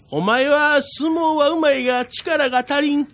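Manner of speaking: high, self-important lecture; cocky little tengu. Acted. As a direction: act superior in a squeaky voice. 小天狗が偉そうに言う. (偉そうな小天狗)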